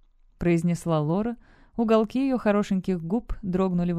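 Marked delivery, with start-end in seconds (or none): none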